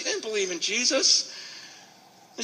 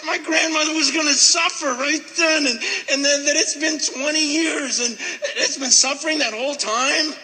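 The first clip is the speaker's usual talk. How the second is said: choked up; 4 semitones higher than usual. Real, not acted. Anguish over grandmother's fate.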